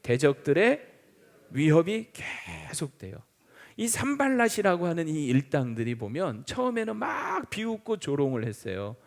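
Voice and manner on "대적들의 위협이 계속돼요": slow, with a pause after 대적들의; slow emphatic repeat. Shown as a demonstration. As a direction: spell the point out slowly for the congregation. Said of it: "자, 첫 번째 뭐라고요?". (천천히 끊어서 강조하며)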